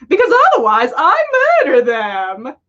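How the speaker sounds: quick, loud, then a dark drop on murder them; wolfish menace. A narrator's reading. Tom joking darkly to Albus, wolfish and smug. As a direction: grin through a casual threat. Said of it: "announced with a wolfish grin".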